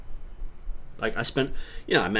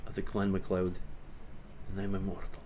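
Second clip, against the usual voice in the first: Conor MacLeod; 2 semitones lower, 8 dB quieter than usual. Acted. Streamer quoting an immortal clansman, Scottish impression. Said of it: "speaking of Scottish accents".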